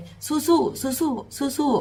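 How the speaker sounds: slow, high chanted cheer; rally yourself, drawing out each word; self-encouragement. Retold or imitated. Girl cheers herself on backstage, high and slow. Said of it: "เขาปลุกใจเจ้าของจั่งใด".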